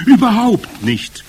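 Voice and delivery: high, loud, drawn-out yell; rowdy bawling. A narrator's reading. Witches assuring their leader all together, bawling. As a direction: bawl it out eagerly. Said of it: "grölten sie durcheinander".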